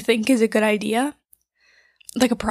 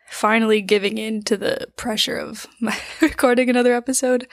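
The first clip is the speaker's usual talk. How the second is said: mouth full. Real, not acted. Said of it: "Sorry if you can hear me chew".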